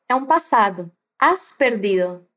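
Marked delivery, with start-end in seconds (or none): 1.2-2.3 slow model phrase. Shown as a demonstration. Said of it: "has perdido é você perdeu".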